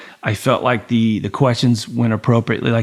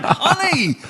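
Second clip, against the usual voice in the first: slow, weary explaining; slower than usual. Retold or imitated. Exhausted reply to angry wife.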